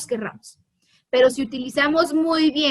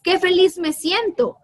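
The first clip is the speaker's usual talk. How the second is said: "Qué feliz me siento" read as a higher, happy exclamation; exclaiming happily; 4 semitones higher than usual. Shown as a demonstration. Teacher showing the exclamation, happily. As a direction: lift it with joy. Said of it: "La forma en como yo leo".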